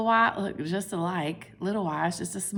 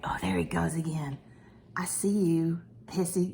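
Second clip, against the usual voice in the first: hushed whisper spotting the cat; 3 semitones lower, 4 dB quieter than usual. Real, not acted. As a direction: whisper so the cat won't hear.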